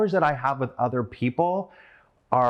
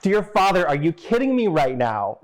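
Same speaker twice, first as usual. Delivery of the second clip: exasperated friend; 5 semitones higher, 3 dB louder than usual. Retold or imitated. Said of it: "And she says".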